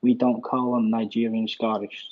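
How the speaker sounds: put-on American accent; generic American accent. Shown as a demonstration. Scottish caller making himself understood to host, generic American accent. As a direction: Scot switching into generic American. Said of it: "I'll do it in American".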